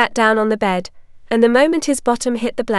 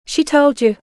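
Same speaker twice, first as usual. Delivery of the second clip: shocked; 4 semitones higher than usual. A narrator's reading. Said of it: "Mikey's eyes flew open in shock".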